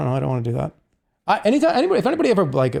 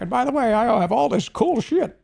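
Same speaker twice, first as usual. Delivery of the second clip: smug boast; 9 semitones higher than usual. Retold or imitated. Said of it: "He was like".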